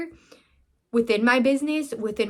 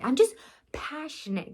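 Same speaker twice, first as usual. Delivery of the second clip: laughing; 5 semitones higher, 3 dB quieter than usual. Real, not acted. Laughing at her own teariness.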